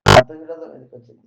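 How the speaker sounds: loud rhetorical question, fast; emphatic repeat. Shown as a demonstration. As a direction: hammer the question home to the listeners. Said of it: "అంత విరోధం ఎందుకు వచ్చింది ఆయనకి?".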